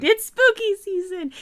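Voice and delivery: high, slow spooky croon. Acted. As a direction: draw it out like a ghost. Echoes in spooky voice.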